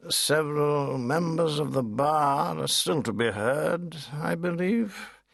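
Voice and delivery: high, clipped barrister's reply; lightly voiced lawyer, pitched high; pompous lawyer. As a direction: answer like a self-important counsel. Tangle continues.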